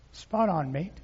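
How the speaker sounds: a faint stab at an Australian "Spot on, mate"; lightly done Australian twang; attempted Australian accent. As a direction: try an Australian accent and barely land it. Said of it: "I can't even do that accent".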